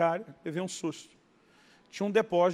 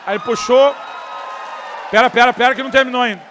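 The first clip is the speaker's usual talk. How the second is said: higher, much louder, fast; excited loud telling; 4 semitones higher, 12 dB louder, faster than usual. Real, not acted. Preacher thrilled to tell his congregation the story's twist. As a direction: rush it out, thrilled.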